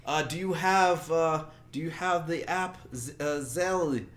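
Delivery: the pushy caller demanding details; scam caller voice. Retold or imitated. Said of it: "he's like".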